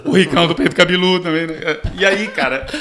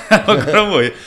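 laughing through it, louder; 5 semitones higher, 6 dB louder than usual. Real, not acted. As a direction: laugh out the words. Laughing at own story. (rindo, mais alto)

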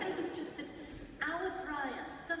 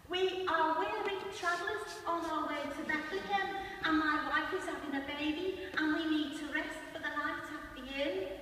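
Brian's stagey recital; 4 semitones higher than usual. Retold or imitated. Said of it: "Our Brian starts".

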